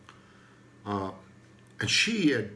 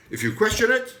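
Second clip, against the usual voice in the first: stern authority; 3 semitones higher, 6 dB louder than usual. Retold or imitated. Mimics authorities' tone.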